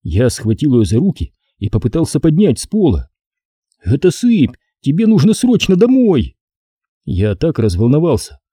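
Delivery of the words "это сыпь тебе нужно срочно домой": put-on high, urgent boy's voice; panicked boy. A narrator's reading. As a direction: hurry her home in alarm. Дуан паникует. (паникующий мальчик)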